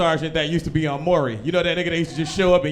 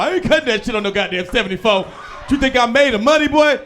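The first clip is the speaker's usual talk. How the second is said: a hint of a scolding father, louder and fast; gruff dad; 6 semitones higher, 5 dB louder than usual. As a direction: snap back like an angry dad.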